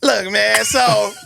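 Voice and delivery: lightly voiced wrestling hype man; Ricochet. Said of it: "Should I do my best Ricochet impression?".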